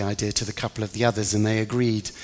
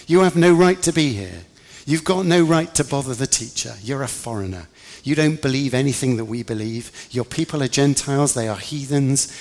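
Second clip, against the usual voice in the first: louder, raised-pitch scolding; indignant rebuke; 3 semitones higher, 4 dB louder than usual. Acted. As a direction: lay down the law to an intruder. James angrily orders her off.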